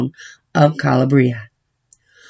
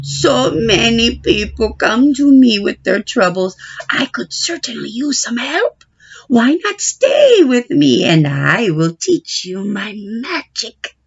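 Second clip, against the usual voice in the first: put-on higher, gentle old witch voice; kindly wise witch; 4 semitones higher than usual. Stregonona invites Babylona.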